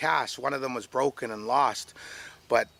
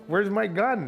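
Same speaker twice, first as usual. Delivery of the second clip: urgent demand; 7 semitones higher, 3 dB louder than usual. Retold or imitated. Acts out urgent demand for gun.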